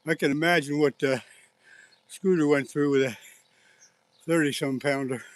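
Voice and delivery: breathless after landing a fish; panting between words; out of breath. Real, not acted. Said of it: "I'm out of breath".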